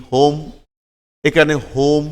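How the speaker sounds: হোম with a rounded "oh" in the middle. Shown as a demonstration. Teacher shows learners the O in home, careful pronunciation demo. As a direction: sound out হোম with the vowel of ও. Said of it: "ওর মতো উচ্চারিত হয়".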